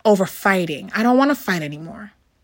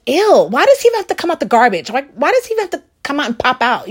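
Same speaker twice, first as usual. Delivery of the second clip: disgusted; 4 semitones higher, faster than usual. Retold or imitated. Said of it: "but Oscar was like".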